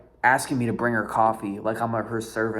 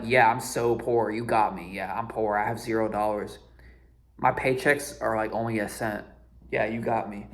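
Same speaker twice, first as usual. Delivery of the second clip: sarcastic. Retold or imitated. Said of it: "I was just being a smart ass".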